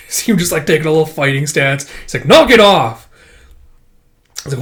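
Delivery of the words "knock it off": high, loud snap to stop; sharp scolding yell. Acted. Healer yelling at the wounded swordsman to stop fighting. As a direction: shout them down before they fight.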